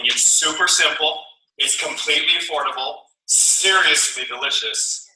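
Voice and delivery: slow, deliberate pitch, each word leaned on; slow sales pitch. Shown as a demonstration. Sales leader to distributors, slow emphatic pitch. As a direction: sell it slowly like a script. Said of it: "script delivered slowly".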